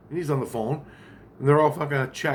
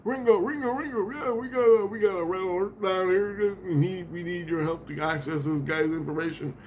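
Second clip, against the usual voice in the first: much higher, hurried caller voice; urgent phone call; 7 semitones higher than usual. Retold or imitated. One Christ phoning a famous drummer, high and urgent. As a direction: play an excited guy raising the alarm. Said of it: "calls up a famous drummer".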